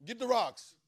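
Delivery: loud, high mob cry; mob shout. Acted. Preacher voicing the angry crowd calling for stoning, loud shout. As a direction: bark it like a mob grabbing stones. Crowd ready to stone her.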